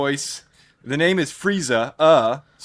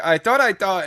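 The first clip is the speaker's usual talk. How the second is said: lightly voiced Tweety, pitched up; Tweety impression; 5 semitones higher than usual. Retelling Tweety's line from the trailer, lightly voiced Tweety. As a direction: quote the little bird, a bit higher. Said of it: "and she's like".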